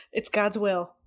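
loud, laughing pompous proclamation; laughing mock decree. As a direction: boom it out through laughter.

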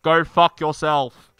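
slow, deliberate mock message; slow delivered insult. Streamer voicing a game message verbatim, slow and deliberate. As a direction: deliver each word slowly and deliberately.

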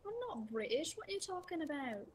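put-on British, pitch lifting on the question; mock British accent. Denying being British to a teasing friend, mock British accent. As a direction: protest in a hammed-up British accent. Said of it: "You just Britished all over the place".

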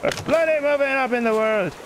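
high, triumphant Irish lilt; Irish accent. Pretend. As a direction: boast to the crew like an Irishman. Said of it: "wanna speak like this".

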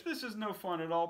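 high, loud whine; scared fish. Acted. Fish complains to the cat, high and loud. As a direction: whine in protest. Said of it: "said the fish".

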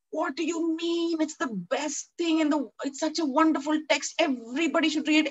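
high, eager and bubbling over; gushing enthusiasm. Retold or imitated. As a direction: rave about the book you've fallen for. Retelling her own gushing reply.

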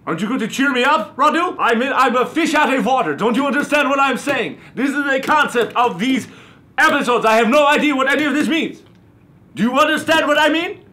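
high-pitched, hurried complaint; worked-up vampire whining at his sidekick; exasperated rant. Acted. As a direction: plead in mounting exasperation.

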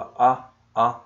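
"أ" as a loud, separate glottal-onset vowel, repeated; isolated hamza sound. Shown as a demonstration. Teacher isolating the first sound of umbrella for students, sounded out. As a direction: punch out the bare opening sound "أ" on its own. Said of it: "سمعت برضو صوت الهمزة".

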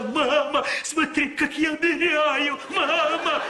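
put-on high excited kid's call; child calling. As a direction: call out like a boy in the water. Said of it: "кричал".

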